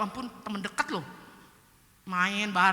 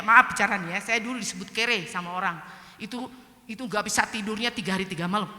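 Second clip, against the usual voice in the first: ordinary talk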